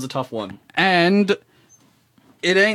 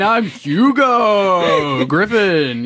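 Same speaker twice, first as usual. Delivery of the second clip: slow, drawn-out pirate introduction; much slower than usual. Acted. Guest introducing himself on radio, playful pirate drawl. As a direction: stretch the name like a hammy pirate. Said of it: "try to do a pirate voice".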